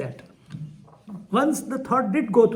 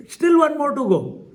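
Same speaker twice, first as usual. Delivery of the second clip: laughing; 7 semitones higher, 5 dB louder than usual. Real, not acted. Laughing while recounting frustration.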